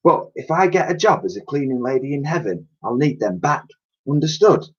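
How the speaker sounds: lightly voiced old cleaning lady, fond; a touch of the old lady, touched and teasing; Dottie's voice. Old cleaning lady thanking Elsie, lightly voiced.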